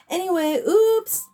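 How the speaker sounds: high startled oops; surprised oops. Real, not acted. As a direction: catch yourself with a yelp. Catches herself after a mistake.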